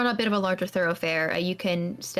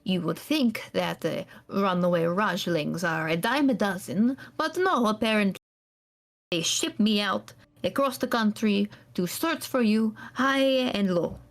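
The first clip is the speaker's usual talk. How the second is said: a hint of a cold, bitter scholar; bitter NPC scolding his runaway charge; a hint of clipped anger at the runaway; stern NPC rebuke; 2 semitones higher than usual. GM voices NPC.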